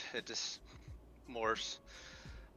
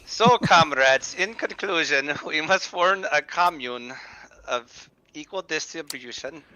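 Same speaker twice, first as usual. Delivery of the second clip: mock socialist speech; 2 semitones higher, 3 dB louder, slower than usual. Mocking the socialist guest.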